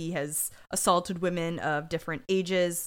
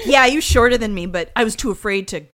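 mocking coward voice; 8 dB louder than usual. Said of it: "He's like".

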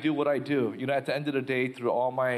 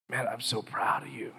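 hushed, breathy whisper; God whispering. Retold or imitated. God whispers his pride to the shaking man. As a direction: whisper it tenderly like God speaking.

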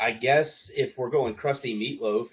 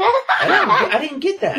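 laughing; 10 dB louder than usual. Real, not acted. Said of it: "laughing at own impression".

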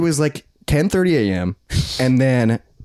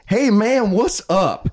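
higher-pitched imitation of an eager greeter; hearty greeting; 8 semitones higher, much slower than usual. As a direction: greet a stranger like an old buddy. Acting out stranger's friendly greeting.

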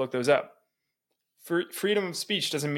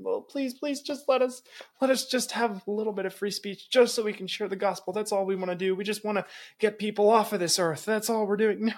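mocking, higher whiny begging voice; pitiful pleading; 6 semitones higher than usual. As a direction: parody a timid believer pleading for permission. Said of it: "They weren't begging and pleading".

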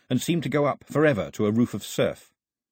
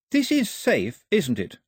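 put-on much higher, stammering girl's voice; startled Daphne; 8 semitones higher, slower than usual. A narrator's reading. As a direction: Daphne caught off guard, high and unsure. Daphne anxious.

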